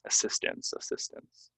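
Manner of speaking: "assistance" as uh-SIS-tince, twice; light ince ending on "assistance"; reduced ending. Shown as a demonstration. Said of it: "ince at the end".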